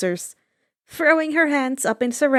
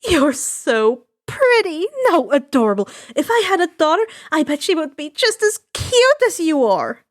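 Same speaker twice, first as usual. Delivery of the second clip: gushing; 4 semitones higher, 4 dB louder than usual. Acted. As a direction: fawn over her like a doting aunt. Mitsuki gushes over Himiko.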